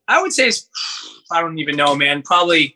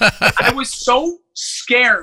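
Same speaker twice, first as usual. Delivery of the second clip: laughing; 3 semitones higher, much slower than usual. Real, not acted. Laughs telling scary moment.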